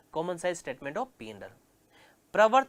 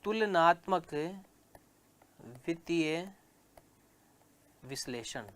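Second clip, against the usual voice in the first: dictating the chapter title to students; word-by-word dictation. Shown as a demonstration. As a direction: spell it out for the notebook. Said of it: "dictating heading word by word".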